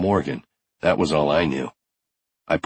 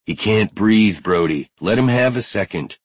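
higher-pitched urgent protest; urgent intervention; 3 semitones higher than usual. Acted. Finn shields winded Matthew from Brody, urgent protest. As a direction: step in and hold him back with your voice.

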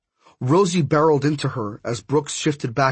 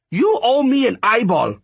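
high, louder, emphatic character voice; demanding older woman figure; 10 semitones higher, 5 dB louder than usual. Acted. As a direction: demand it like a debt being called in. Miss Cab's parting demand, voiced.

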